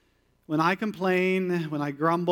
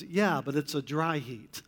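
lower, softer flat-voiced comeback; dry deadpan reply; 4 semitones lower, 6 dB quieter than usual. God answering the complaining Israelites, deadpan. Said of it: "God's response was".

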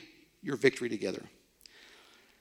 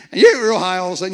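put-on squeaky teen voice, louder, fast; cracking puberty voice; 4 semitones higher, 10 dB louder, much faster than usual. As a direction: play the voice breaking high like a boy. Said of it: "a kind of a whiny voice".

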